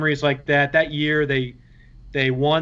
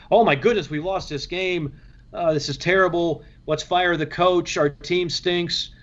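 higher, slowing mock despair over a loss; mock fan panic; 4 semitones higher than usual. Mocking college fans who panic after one loss, in hammed-up despair. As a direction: ham up a panicked fan, dragging out the last words.

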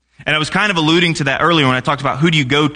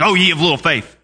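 mock grumpy; 3 semitones higher than usual. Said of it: "and it's all grumpy".

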